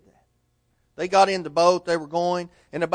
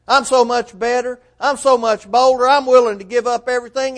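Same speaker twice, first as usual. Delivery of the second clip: proud boasting; 3 semitones higher, 5 dB louder than usual. Retold or imitated. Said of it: "Peter might tell each of us".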